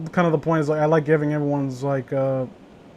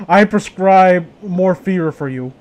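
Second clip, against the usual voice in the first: slow, loud pompous doctor voice; mock doctor; 2 semitones higher, 6 dB louder, slower than usual. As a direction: play a mock doctor prescribing, slowly and loud. Playing the doctor.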